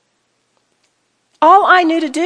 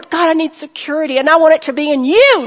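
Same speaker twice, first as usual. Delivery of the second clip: modelled prayer; 2 semitones higher than usual. Shown as a demonstration. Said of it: "You can ask for".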